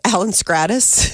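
sheepish laugh through the name; embarrassed laughing. Real, not acted. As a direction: confess the name with a giggle. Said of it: "What was his name?".

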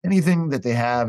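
retold plea to an agent; pleading. Retells begging agent for a part.

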